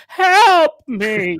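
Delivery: high, loud pleading yell; mock cry for help. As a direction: call out for help as a joke. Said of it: "my memory of the first time".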